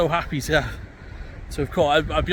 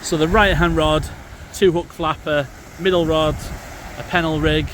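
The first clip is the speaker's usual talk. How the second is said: shouting over wind. Real, not acted. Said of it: "Hopefully you can hear me over the wind".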